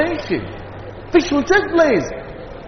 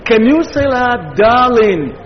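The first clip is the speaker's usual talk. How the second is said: louder, higher challenge; pressing challenge; 3 semitones higher, 3 dB louder than usual. Shown as a demonstration. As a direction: push them to say it. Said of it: "you are the one saying it first".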